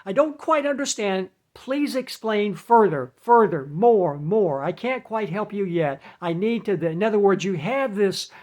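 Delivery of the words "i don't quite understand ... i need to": a hint of a robotic helpline asking for more; mock computer voice. Automated phone system asking caller to explain further, lightly mocked. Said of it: "The computer voice then says".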